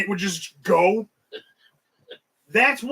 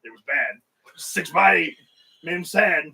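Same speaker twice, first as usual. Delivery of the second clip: deadpan poem recital; 5 semitones lower, slower than usual. Retold or imitated.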